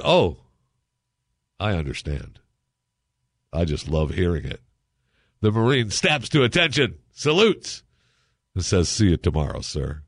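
steady storyteller's read with small character voices; host reading a gag story to listeners, easy storytelling; joke story reading. Acted. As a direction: tell the joke like a radio yarn. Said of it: "I'll read you a little story".

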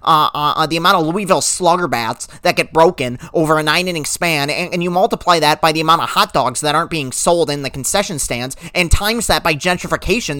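mocking a Twitter know-it-all. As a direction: play a rambling Twitter expert, lightly voiced. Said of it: "some schmo on Twitter will say".

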